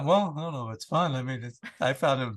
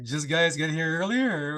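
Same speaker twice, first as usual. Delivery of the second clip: lightly put-on East Coast accent; slow East Coast twang; slower than usual. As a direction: say it like an East Coast Canadian local, drawn out. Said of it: "being from the East Coast".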